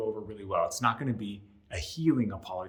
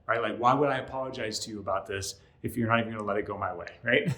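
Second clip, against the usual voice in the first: angry. Retold or imitated. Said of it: "I might be like".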